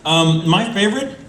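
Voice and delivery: words through chewed ice; mouth full. Real, not acted. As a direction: talk while crunching ice. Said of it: "I'm chewing ice now".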